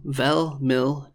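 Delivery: "mil" ends in a soft, l-like D; soft D pronounced. Shown as a demonstration. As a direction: keep the soft D at the end of "mil". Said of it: "with a soft D".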